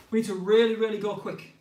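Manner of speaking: loud urging. Real, not acted. Coach urging faster drill.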